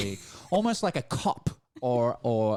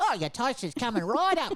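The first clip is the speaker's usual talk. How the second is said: put-on little old elderly grandfather character voice; 12 semitones higher than usual. Describing a man with a toaster, the speaker voices him: little granddad voice. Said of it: "he's like a little granddad".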